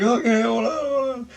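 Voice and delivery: imitating. Voicing partner's reply.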